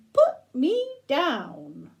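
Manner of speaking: bear voice. Acted. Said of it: "the bear's saying".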